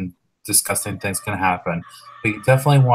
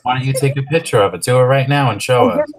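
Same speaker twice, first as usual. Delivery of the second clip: louder, pushier repeat of the question; insistent demand; 3 semitones higher, 5 dB louder than usual. Real, not acted. Host repeating the dare louder and faster. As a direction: press her to show it now. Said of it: "repeats demand louder".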